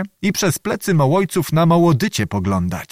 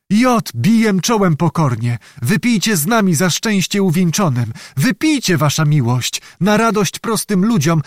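high-pitched submissive pleading; humble entreaty; 6 semitones higher than usual. A narrator's reading. Peasant begs the knight to drink with them, entreating. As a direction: coax the lord humbly.

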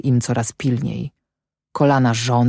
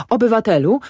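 pleading; 7 semitones higher, faster than usual. A narrator's reading. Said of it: "zawołał Panicz do Ślimaka".

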